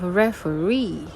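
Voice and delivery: "referee" with the final -ree stressed most; teacher showing where "referee" takes its stress; stress demo on referee. Shown as a demonstration. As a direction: lean on the last syllable of "referee", lighter stress on the first. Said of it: "it's a little bit stressed".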